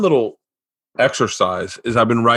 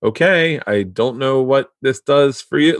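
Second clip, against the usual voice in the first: imitating polite bewilderment, pitched up; confused. Wife faced with an unfamiliar addition, mildly confused. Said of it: "a look of, like, confusion".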